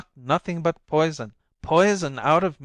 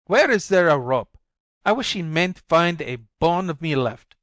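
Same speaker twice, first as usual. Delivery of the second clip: higher, louder desperate outburst; frantic cry for help; 5 semitones higher, 8 dB louder than usual. A narrator's reading. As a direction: cry out as if from a fire. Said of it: "like a cry for help".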